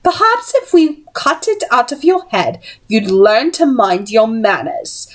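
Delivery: sinister threat. Acted. Missus Black threatening Tessa.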